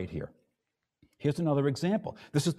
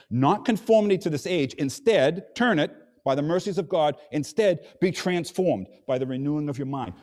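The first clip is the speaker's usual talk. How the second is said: emphatic quote; 2 semitones higher, 3 dB louder than usual. Retold or imitated. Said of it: "This is the instead".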